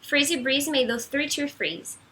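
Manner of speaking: deliberate "three tree", TH-R then T-R; careful tongue twister. Shown as a demonstration. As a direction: pick through "Freezy breeze made those three tree freeze" slowly. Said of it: "Esse aqui eu já acho um pouco mais difícil".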